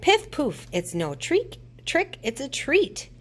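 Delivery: high piff poof then witchy patter; high witch incantation; witch spell. A narrator's reading. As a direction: cast the spell with a squeak. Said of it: "said Scraggy Witch".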